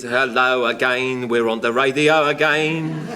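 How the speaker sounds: slow, drawn-out bandleader greeting; a bandleader's voice. Retold or imitated. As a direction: stretch it out like a crooning radio host. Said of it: "that was a sort of voice".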